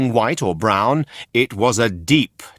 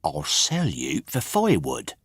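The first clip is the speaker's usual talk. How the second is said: annoyed; 6 semitones lower, 6 dB quieter than usual. A narrator's reading.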